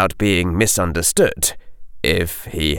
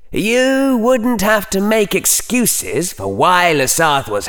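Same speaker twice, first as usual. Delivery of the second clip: coldly; 10 semitones higher than usual. A narrator's reading. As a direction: lecture him with icy scorn. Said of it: "said coldly".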